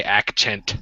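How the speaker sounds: "accent" said as "ak-chent"; misspelt "accent". Shown as a demonstration. Host relays Walter's request, "accent" with a CH. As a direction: keep the typo's CH in "accent". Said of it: "C's not even close to H".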